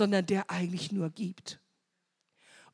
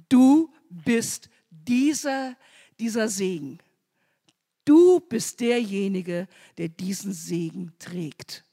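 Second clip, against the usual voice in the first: loud, slow proclamation of blessing; emphatic blessing; 4 dB louder than usual. Acted. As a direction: hammer out each "Du" slowly. Abraham blessing Isaak, emphatic. (Abraham segnet Isaak laut und langsam)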